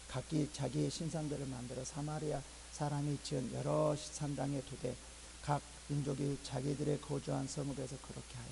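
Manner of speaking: low, soft, monotone reading aloud; scripture reading. Real, not acted. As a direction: read the verse quietly and evenly, with halting breaks. (낮고 조용하게 성경 봉독)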